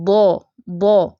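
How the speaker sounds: slow full-o دو, heavy letter; دو، دو said slowly and heavy; recitation demo. Shown as a demonstration. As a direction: draw out دو on a rounded o. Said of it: "او کے وزن پہ رکھیں".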